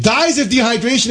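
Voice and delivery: high, indignant stress on "dies"; outraged. Real, not acted. Repeats the facts in outrage.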